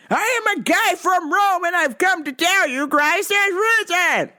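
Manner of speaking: mock zealot lecturing a cashier; preachy Rome guy. Quoting man again.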